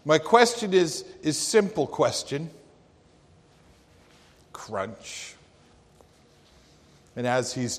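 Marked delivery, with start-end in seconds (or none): 0.0-2.5 higher and louder, a bold folksy challenge; old preacher. Retold or imitated. Old preacher asks his question. 4.5-5.3 soft imitated crunch of an apple bite; crunching noise. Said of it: "took crunch out of his apple".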